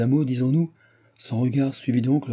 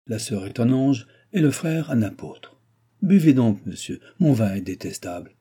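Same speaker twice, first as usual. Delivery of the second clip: lightly voiced baron, pitched up in places; sardonic old baron; 5 semitones higher, 3 dB louder than usual. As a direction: complain with biting irony. Baron complains of his children.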